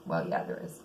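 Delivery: dry low self-correction; wry muttered aside. Real, not acted. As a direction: mutter it back under your breath. Wry answer to her own line.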